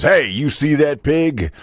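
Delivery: lightly voiced farmer spinning a yarn; animated farmer's tall tale. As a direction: ramble on like a country farmer. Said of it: "He goes".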